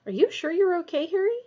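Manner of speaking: anxious. A narrator's reading. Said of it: "watching Harry anxiously".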